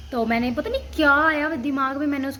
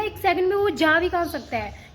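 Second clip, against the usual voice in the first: 1 alarmed disbelief; 6 semitones higher than usual. Retold or imitated. Panicked search for missing bird.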